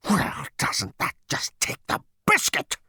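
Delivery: slow, rasping roar, voice breaking into noise; furious roar. A narrator's reading. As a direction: roar it out as an outraged war machine. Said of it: "it roared".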